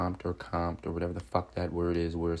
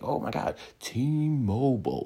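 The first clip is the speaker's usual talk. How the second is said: higher, drawn-out brand-name plug; mock sponsor plug; 4 semitones higher, slower than usual. Speaker mocking how sponsors want it said, exaggerated clear plug. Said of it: "say it clear and shit like that".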